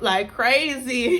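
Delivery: laughing. Real, not acted.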